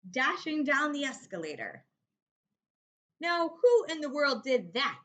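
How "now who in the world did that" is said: louder, a touch of a startled watchman; exclaimed. Acted. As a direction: night watchman calling out into the dark store. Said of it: "he exclaimed".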